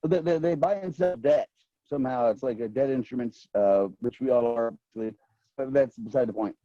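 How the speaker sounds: glitchy robotic connection audio; choppy breaking-up call audio. Real, not acted. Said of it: "Your voice is really robotic".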